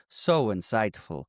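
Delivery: slow, mock-impressed praise; patronizing. Retelling the villain humouring the salesman, patronizing. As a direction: stretch out the false admiration. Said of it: "He's patronizing the shit out of him".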